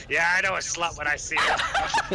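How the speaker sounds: a hint of a sly demon voice; lightly voiced lustful incubus; seductive demon purr. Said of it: "mimics the voice again".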